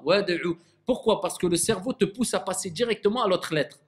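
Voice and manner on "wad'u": WAD'U with the D coloured by U; mistaken damma on D. Shown as a demonstration. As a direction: let the coming U leak onto the D of Wad'u. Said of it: "comme si je lui mets une dhamma".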